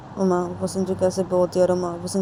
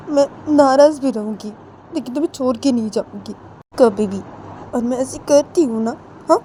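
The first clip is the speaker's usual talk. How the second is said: louder, higher, emphatic vow; loving insistence; 4 semitones higher, 4 dB louder than usual. Acted. Uma vowing to quarrel with Sanju but never leave, insistent. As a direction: press each promise home with affectionate force.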